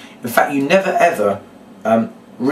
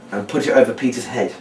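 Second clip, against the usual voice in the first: casual run-over of the step to oneself; understated recap while doing the action; recapping out loud. Shown as a demonstration. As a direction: think the instruction aloud. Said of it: "you recap out loud".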